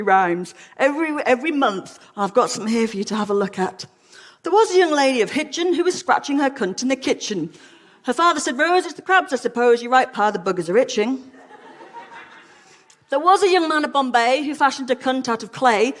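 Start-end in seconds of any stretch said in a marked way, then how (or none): 4.4-15.9 higher-pitched bouncy verse reading; limerick recital. Acted. Lecturer reads bawdy Victorian nursery rhymes to the audience, limerick recital.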